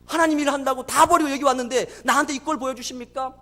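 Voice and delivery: retold protest, building from subdued to forceful; defiant reproach. Father who gave up everything, reproaching God defiantly. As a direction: begin bitterly restrained, then push into accusation. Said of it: "막 대들었다는 겁니다".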